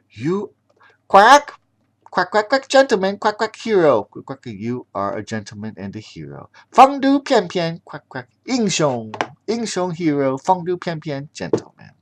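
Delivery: high lightly voiced lady duck. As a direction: gratefully praise the hero.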